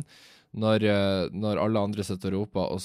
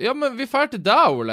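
high, louder, eager chant; insistent friends; 13 semitones higher, 5 dB louder than usual. Retold or imitated. Friends insisting on afterparty at Ole's, high and eager. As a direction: push him eagerly into hosting.

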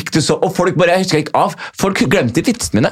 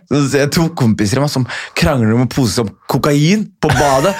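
usual speaking voice

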